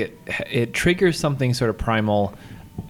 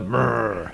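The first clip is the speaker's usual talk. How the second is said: tiger growl. Retold or imitated. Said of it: "it sounds like a tiger".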